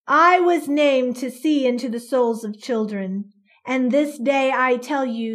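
loud, commanding boom; a creature booming over the mob. Acted. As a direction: fill the square with the voice. Creature's prophecy to child.

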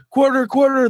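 high, loud squeaky goblin plea. Acted. Cornered goblin begs the adventurers, high squeaky plea.

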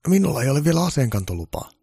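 high-pitched, loud security guard. Acted. Guard telling Santa he has no gun licence, high and loud.

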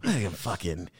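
low, soft grumble; grumbling traditionalist. Acted. Old-ways guy complains at Sunday dinner, mock grumbling. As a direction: grumble like someone stuck in the past.

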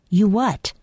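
demanding. A narrator's reading. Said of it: "Mister Yashenko demanded".

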